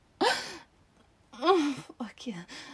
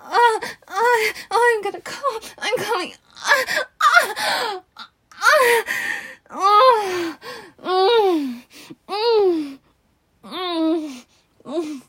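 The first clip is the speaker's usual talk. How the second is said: ecstatic cries; 6 semitones higher, 4 dB louder, much slower than usual. Acted. Climax cries.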